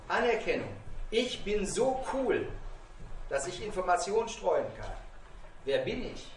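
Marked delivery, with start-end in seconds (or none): 1.1-4.9 mock bragging. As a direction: stretch it out like a show-off. Voices a bully seeking recognition.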